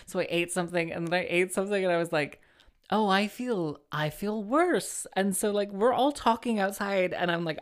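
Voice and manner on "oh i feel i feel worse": higher, drawn-out realisation; retold dismay. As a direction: imitate dawning dismay, stretching the last word. Retold realisation of feeling sicker.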